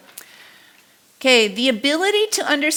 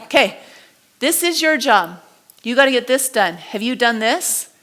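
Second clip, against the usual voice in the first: manager, palm up. Retold or imitated. The same manager talking to staff, now inviting and open. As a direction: ask it like you're offering help. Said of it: "He's like".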